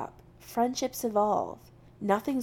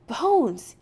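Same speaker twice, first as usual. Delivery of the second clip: called out, breathless; calling out; 6 semitones higher, 8 dB louder than usual. Acted. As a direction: call his name after him. Calling after him, out of breath.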